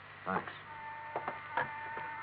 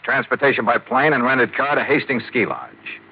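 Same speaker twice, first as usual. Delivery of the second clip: expense report read. Acted. Reads out expense account entry.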